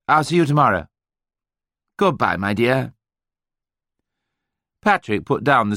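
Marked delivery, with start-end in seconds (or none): 0.1-2.9 high, strained, drawling English gentleman on the phone. A narrator's reading. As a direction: draw the words out with strained sympathy. George's voice again.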